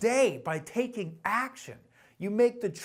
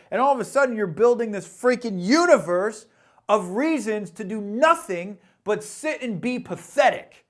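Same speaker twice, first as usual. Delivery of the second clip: louder, heated and building; emotional outburst; 7 dB louder than usual. Real, not acted. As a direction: let the frustration spill over. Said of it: "getting a little emotional there".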